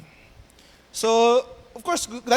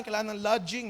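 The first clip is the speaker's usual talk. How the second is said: usual speaking voice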